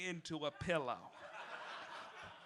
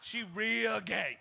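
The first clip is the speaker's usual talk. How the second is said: slow deadpan sass; slow, sly camp verdict; sassy aside; 2 semitones higher than usual. Acted. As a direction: drop it flat and slow, all shade. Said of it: "sassy aside".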